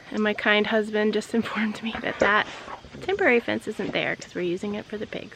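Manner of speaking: amused half-whisper; hushed, wry aside. Real, not acted. Amused whisper about husband.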